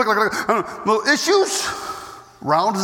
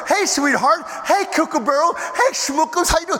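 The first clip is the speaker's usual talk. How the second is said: Schmookums talk; 5 semitones higher than usual. Retold or imitated. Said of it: "starts talking Schmookums talk to her".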